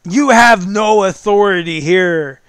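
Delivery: royal voice. Acted. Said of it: "says the voice, the royal voice".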